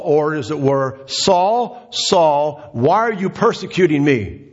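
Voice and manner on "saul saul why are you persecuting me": voice of the Lord calling. Acted. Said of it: "And the voice says this".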